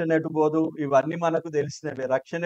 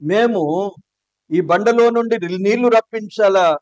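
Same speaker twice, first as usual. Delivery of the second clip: higher, louder, scornful outburst; angry shout; 4 semitones higher, 7 dB louder, slower than usual. Retold or imitated. Moses angrily shouting at the people by the rock. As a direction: hurl the question at them in rage. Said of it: "చాలా గట్టిగా మాట్లాడి ఉంటాడు".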